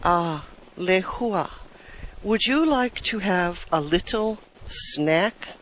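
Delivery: casually voiced invitation, unhurried; nonchalant, leisurely offer. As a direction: ask it offhand, easing into the question. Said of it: "very casual kind he asked".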